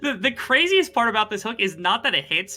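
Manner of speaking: high, loud, laughing with hype; excited laughing. Real, not acted. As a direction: gush over the play, laughing. Co-caster hyped about hook.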